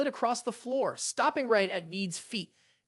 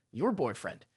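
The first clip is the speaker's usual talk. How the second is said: put-on deliberate stress on "your boyfriend"; emphasized words; 8 semitones lower, 4 dB quieter than usual. A narrator's reading. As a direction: set "your boyfriend" apart, pitched low, pointedly. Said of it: "She purposely emphasized the words".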